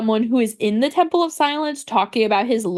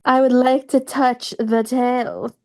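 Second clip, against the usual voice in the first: slow, drawn-out imitation of a character; Yai Miko; slower than usual. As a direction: draw it out in a put-on voice, unlike your own. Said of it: "Yai Miko's just over there like".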